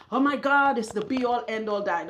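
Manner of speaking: mocking vegans. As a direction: gush over the diet in mockery. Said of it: "they act like".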